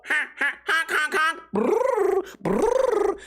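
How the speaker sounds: high clown honking noises; silly clown. Pretend. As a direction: honk and buzz like a clown. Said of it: "dress up like a clown and make a balloon animal and go".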